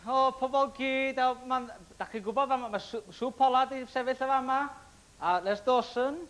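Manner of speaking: speaking Welsh. Retold or imitated. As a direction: slip into Welsh like a proud local. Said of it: "I don't know why I'm talking like this for".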